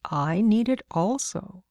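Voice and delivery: put-on slow, measured reply to a child; lightly voiced adult reasoning with a child; patiently reasoning man. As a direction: stretch it out, lilting up at the end. Man answers the insistent child.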